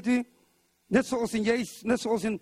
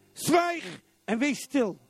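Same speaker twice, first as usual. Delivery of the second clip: slow command; much slower than usual. Acted. Quoting Jesus commanding the storm.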